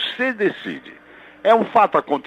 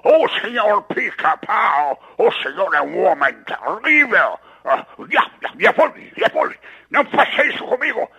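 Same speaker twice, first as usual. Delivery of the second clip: Leôncio; 10 semitones higher, 5 dB louder than usual. Shown as a demonstration. Veteran dubber performing his cartoon character for the radio host, high indignant wail. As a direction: wail in protest with a put-on cartoon voice. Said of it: "Você pode fazer um pouquinho do Leôncio?".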